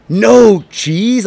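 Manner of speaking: shocked, rising "no cheese?"; shocked question. Retold or imitated. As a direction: ask it in disbelief. Retold friend's shocked reply.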